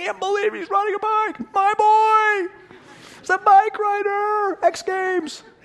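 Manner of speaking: put-on very high, ecstatic, exultant yell, "boy" stretched. Retelling the moment their son first rode a bike, retelling ecstatic yelling. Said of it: "I lost my voice yelling with ec- ecstasy".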